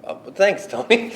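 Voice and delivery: high, loud gushing thanks. Retold or imitated. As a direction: gush with delight.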